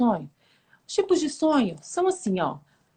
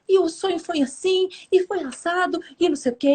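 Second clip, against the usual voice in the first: put-on child recounting dream; 5 semitones higher than usual. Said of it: "Aí ele foi contando".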